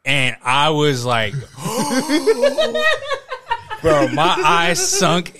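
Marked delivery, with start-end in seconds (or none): 1.4-3.8 high gasp into laughter; shocked laughing gasp. Retold or imitated. Storyteller reliving the shock, high laughing gasp. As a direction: gasp in shock then crack up.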